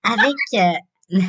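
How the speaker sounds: lightly put-on ditzy teleshopping voice; bimbo voice. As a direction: play a mildly airheaded shopping host. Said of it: "ma voix de pétasse pour, euh, pour faire le promo".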